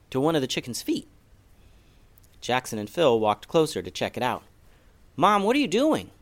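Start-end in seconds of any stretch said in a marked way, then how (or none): 5.2-6.1 put-on much higher, puzzled boy; lightly voiced confused boy; Jackson's voice. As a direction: kid calling out to his mom. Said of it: "asked Jackson".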